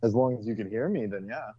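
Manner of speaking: muffled, like through a pillow; talking through a pillow. Real, not acted. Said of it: "it sounds like you're talking through a pillow".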